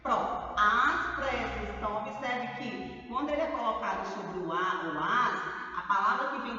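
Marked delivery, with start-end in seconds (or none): 0.6-1.7 "às pressas" slow and louder, holding "às"; prolonged "às". Shown as a demonstration. Teacher repeating the example, "às pressas" drawn out and louder. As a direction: stretch the first vowel of "às pressas". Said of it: "nós pronunciamos prolongando".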